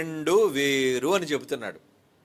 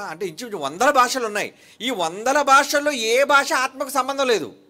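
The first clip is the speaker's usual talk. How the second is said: louder and much higher, rising to a climax; full-voiced preaching; 9 semitones higher, 7 dB louder than usual. Real, not acted. Preacher declaring to his listeners no language belongs to the spirit, loud. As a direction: thunder it out to the church.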